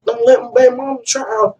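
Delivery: high, pressing urgent voice; urgent call. Retold or imitated. Man calling his friend about his son's mother, urgent and high. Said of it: "I like".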